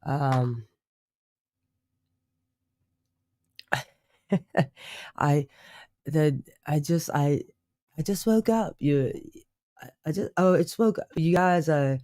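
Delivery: put-on halting, overdone British accent. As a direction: lay the British accent on a bit thick. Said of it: "going a little too British".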